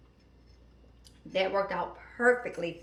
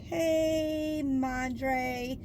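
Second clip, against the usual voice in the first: higher, coaxing daughter voice wanting a favor; butter mom up before asking; daughter sweet-talking; 6 semitones higher than usual. Retold or imitated. Daughter calling mom for a favor, higher coaxing voice. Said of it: "It's like".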